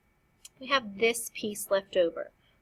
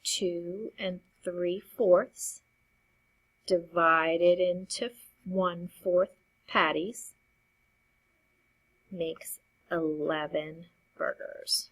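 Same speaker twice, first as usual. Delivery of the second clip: slow, deliberate reading; slower than usual. Shown as a demonstration. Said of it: "our number sentence should read".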